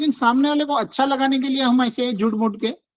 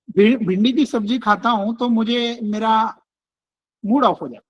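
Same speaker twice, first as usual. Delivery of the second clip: gently. Shown as a demonstration. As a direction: show how kindly it was said. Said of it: "मैंने किस तरीके से बोला". (प्यार से, शांत)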